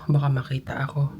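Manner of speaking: hushed, quiet voice in a locker room; whispering while hiding. Real, not acted. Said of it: "Bumubulong kasi nandito ako sa locker room".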